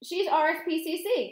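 high, loud disbelief; cried out. A narrator's reading. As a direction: protest in astonishment. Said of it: "cried Mister Jenkins".

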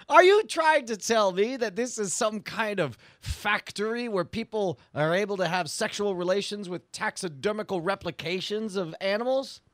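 badly borrow the weasel's British accent; slipping into British accent. Interrogating a suspected animal factory owner, poor British accent. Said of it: "You're doing it again, Gary".

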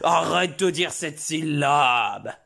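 slow, every syllable hammered; overstressed scolding. Acted. Father ordering his son to stop, slow mock-angry scolding. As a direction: spell out the order angrily. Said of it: "je l'ai un peu trop accentué".

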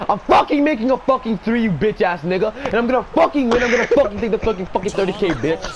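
pumped up and taunting; hyped trash talk. Real, not acted.

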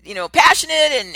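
loud, high laughing burst; breaking into laughter mid-sentence. Real, not acted. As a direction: laugh it out, excited. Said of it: "getting emotional about".

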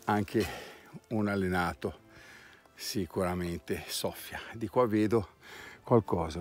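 panting after the climb; out of breath. Real, not acted. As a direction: speak through heavy breaths. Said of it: "Scusate il fiatone".

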